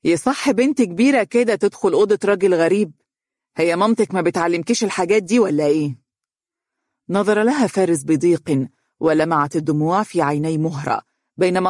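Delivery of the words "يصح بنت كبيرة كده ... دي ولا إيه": sharp rebuke. Acted. Dunya scolds Mahra for entering Faris's room, sharp rebuke. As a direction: lash out with a scornful scold. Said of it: "نظرت لها دنيا بحدة وقالت".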